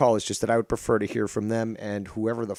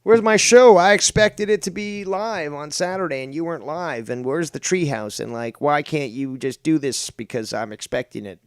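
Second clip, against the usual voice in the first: whiny fan mockery; 4 semitones higher, 5 dB louder than usual. Mocking demanding viewers.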